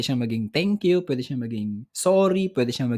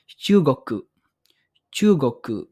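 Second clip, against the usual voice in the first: whispered; 4 dB louder than usual. Shown as a demonstration.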